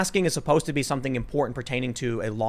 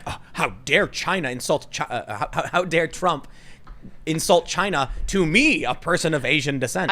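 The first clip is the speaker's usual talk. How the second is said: self-righteous mockery; 2 semitones higher than usual. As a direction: play the outraged reporter with mock sanctimony. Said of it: "how self-righteous you have to be to be like".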